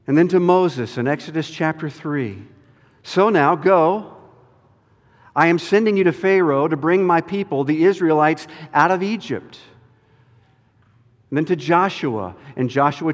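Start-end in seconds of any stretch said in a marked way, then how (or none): 3.0-9.6 firm, raised divine command; commanding voice of God. Acted. God sending Moses to Pharaoh, firm and commanding. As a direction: send him off to Pharaoh.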